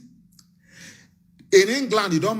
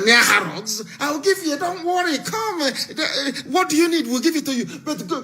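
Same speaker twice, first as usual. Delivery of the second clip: mock white man's offer; 3 semitones higher than usual. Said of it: "They want to come and tell you".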